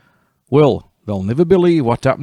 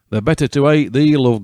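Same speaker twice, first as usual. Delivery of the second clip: growled; 5 semitones higher, 4 dB louder than usual. Acted. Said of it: "growled Wolf".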